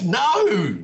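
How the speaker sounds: sharp high shouted no. Retold or imitated. Agent cutting him off with a shouted no. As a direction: bark it down the phone.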